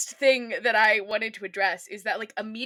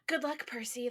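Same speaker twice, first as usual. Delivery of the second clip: soft, wistful farewell; 7 dB quieter than usual. Retold or imitated. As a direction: say it softly and longingly. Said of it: "very wistful".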